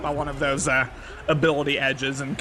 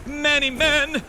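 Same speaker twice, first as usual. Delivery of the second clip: 1 excited shout; 10 semitones higher than usual. Real, not acted. Hyped over a touchdown play.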